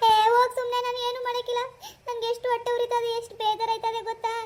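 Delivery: irritated refusal. Acted. Wife refuses husband's order to cook, irritated. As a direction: snap back and refuse outright.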